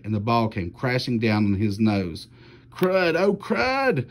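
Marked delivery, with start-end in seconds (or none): 2.7-4.1 much higher yelp of sudden pain. A narrator's reading. Boy hit on the nose by the ball, high yelp of pain.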